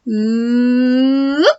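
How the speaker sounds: teacher's warm-up hum; warm-up ooh. Shown as a demonstration. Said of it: "you can feel it vibrating".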